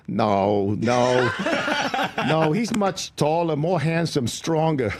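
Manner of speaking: high voice, laughing through the no; laughing dismissal. Retold or imitated. Waitress sizing him up and laughing him off. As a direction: brush him off while cracking up.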